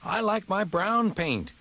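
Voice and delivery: high, slow, gentle disagreement; lightly voiced old tram musing; mild Toby voice. A narrator's reading. Toby gently disagreeing with Thomas about paint. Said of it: "said Toby".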